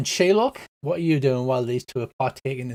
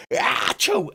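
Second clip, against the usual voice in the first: sudden high-pitched "achoo"; acted-out sneeze, pitched up; high mock sneeze. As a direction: burst into a comic sneeze. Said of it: "he goes".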